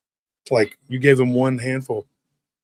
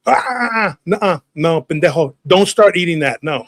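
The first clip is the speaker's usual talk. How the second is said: mock-stern mother, pitched up; alarmed scolding; 3 semitones higher than usual. Mother stopping her kid at the candy bag, mildly alarmed scolding. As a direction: cut them off with urgent refusals.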